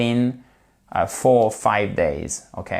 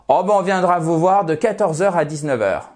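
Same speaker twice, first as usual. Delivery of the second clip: lightly voiced appointment booker, pitched higher; company agent; 5 semitones higher than usual. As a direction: play a utility rep offering a time slot. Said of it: "qui vous dit". (employé d'entreprise légèrement imité, voix plus haute)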